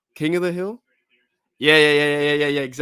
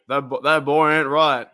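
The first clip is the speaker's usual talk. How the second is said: mock Hank Hill; 6 dB louder than usual. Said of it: "Hank Hill quotes".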